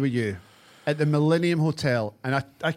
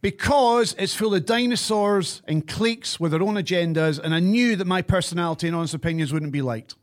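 forced reading. Real, not acted. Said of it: "read that in the most pure forced, computerized".

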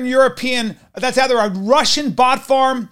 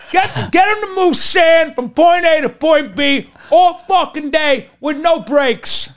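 tough-guy rant; 5 semitones higher than usual. Acted. Ranting tough-guy bit.

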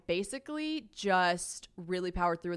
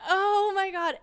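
high, loud dismayed exclamation; mock horror; 12 semitones higher, 8 dB louder, slower than usual. Woman learning his real age, high horrified exclamation. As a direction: exclaim in acted shock, pitched way up. Reacting to learning he's twenty-three.

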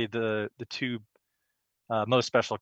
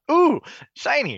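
high, slow mock wonder at a shiny thing; playful mock awe, drawn out high; mock dazzled; 5 dB louder than usual. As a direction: coo it like a distracted kid. Mocking own distraction, Billy laughing.

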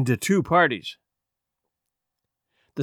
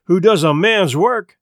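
retort; 3 dB louder than usual. Acted. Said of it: "Chris retorted".

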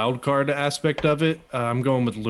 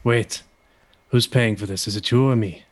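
put-on German accent, measured delivery; a hint of a German accent; Walter; 3 semitones lower than usual. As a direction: attempt a German-accented wrestler. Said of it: "trying to do the German accent".

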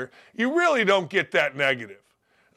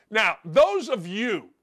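normal talking voice

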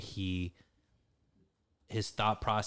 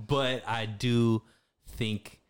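laughing; 4 semitones higher, 6 dB louder, much slower than usual. Real, not acted. Laughs at his own joke.

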